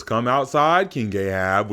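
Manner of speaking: loud, high, taunting call. Retold or imitated. Elijah daring King Ahab to come fight, loud taunting call. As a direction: shout him out like a street challenge.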